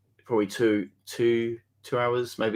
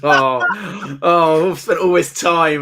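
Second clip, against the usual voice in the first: mock lament; 6 semitones higher, 8 dB louder, much slower than usual. Mocking himself after losing the game.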